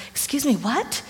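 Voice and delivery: shocked mock disbelief; stunned disbelief. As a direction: caught completely off guard. Stunned at diagnosis call.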